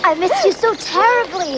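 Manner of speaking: excited and affectionate; delighted reunion. Acted. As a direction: gush to a dear friend just back. Friends reunite after separation.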